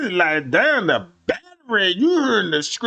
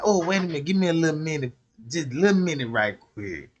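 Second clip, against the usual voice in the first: soft stalling; 4 semitones lower, 5 dB quieter, faster than usual. Retold or imitated. Girlfriend stalling him, quoted.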